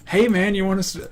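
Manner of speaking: put-on Indian accent. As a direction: voice the store clerk. Voicing imagined store guy.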